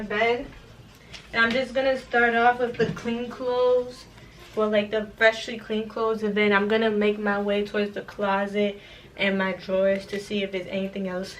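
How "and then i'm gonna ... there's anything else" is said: breathless, fading to quiet; out of breath. Real, not acted. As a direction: talk while winded from packing. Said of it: "Y'all, I'm out of breath".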